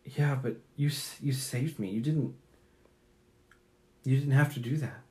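soft, halting sincerity; hushed, sincere gratitude with pauses; very earnest. Acted. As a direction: speak gently and earnestly, a little hesitant. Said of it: "he's very earnest".

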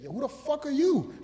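high, slow mock challenge; imitating the drunk's outrage; mock angry. Drunk heckler squaring up to the comedian, high and slow. Drunk man confronting him.

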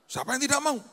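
high, loud rhetorical cry; emphatic rhetoric. Acted. Preacher challenging the congregation, high and loud. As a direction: sell it to the crowd.

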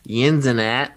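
Yinzinat said with emphatic local punch; Pittsburgh pronunciation. Shown as a demonstration. Host naming a friend's podcast, Pittsburgh pronunciation of Yinzinat. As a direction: hit Yinzinat loud, Pittsburgh style. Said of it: "you gotta say it like that".

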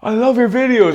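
high, loud mock yell; imitated aggressive shout. Big dude shouting at YouTuber, aggressively. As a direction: yell praise as if picking a fight. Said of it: "he was really aggressively shouting at me".

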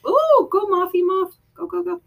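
high excited cheer. Real, not acted. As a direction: egg her on, high pitched. Cheering on someone.

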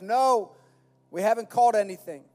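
yelling back. Acted. Disciples answering from the boat, mock yelling back. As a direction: shout it back, not at full force. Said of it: "And they yell back".

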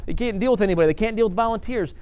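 mock frustrated grumbling; frustrated complaint. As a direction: whine about someone who won't fix it. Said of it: "or get frustrated".

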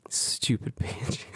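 contemptuous. Real, not acted. Venting after retold quarrel.

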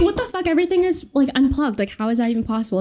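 high, fast, freaked-out disbelief; shocked disbelief. Retold or imitated. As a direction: blurt out the panic. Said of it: "we're like".

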